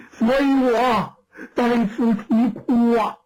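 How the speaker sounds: a hint of a weeping old woman pleading; grieving old woman. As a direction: tell her sorrow like a bereaved granny. Storyteller voices grieving old woman.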